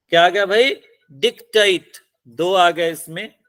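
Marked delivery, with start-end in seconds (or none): 1.1-1.9 डिक्टेट with weight on its second syllable, pitched up; stress on last syllable. Shown as a demonstration. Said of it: "last पे लगेगी". (डिक्टेट, आख़िरी syllable पर ज़ोर)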